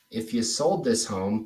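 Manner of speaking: "if you sold this home" left hanging on HOME; hanging before a pause. Shown as a demonstration. Coach reminds trainee of the script, "home" held before pausing.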